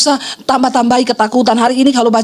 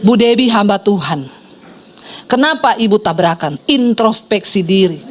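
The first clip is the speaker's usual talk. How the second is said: low, measured mock reproach; sharp-tongued commenter, lightly voiced in low pitch; imitating snide critic; 6 semitones lower than usual. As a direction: imitate a judgmental churchgoer lecturing. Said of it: "orang-orang Kristen julid".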